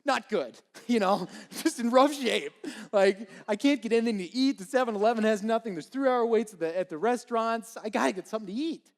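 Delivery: high, loud, fast pleading; frantic starving plea, words tumbling out; a hungry man at the end of his rope; desperate hungry rant. Retold or imitated. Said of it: "And I'm like".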